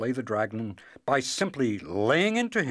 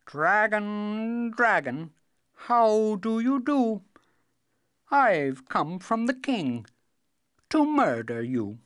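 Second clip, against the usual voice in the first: loud and firm; 10 semitones higher, 6 dB louder, slower than usual. Shown as a demonstration. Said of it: "Say it very loudly and firmly".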